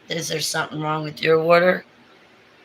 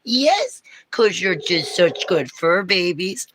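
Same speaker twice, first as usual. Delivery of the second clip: talking-to-pets voice; 5 semitones higher than usual. Real, not acted. Praising Milo and Rumble as good fur babies, high pet baby talk. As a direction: pitch it up and coo as if to fur babies. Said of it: "when you talk like this".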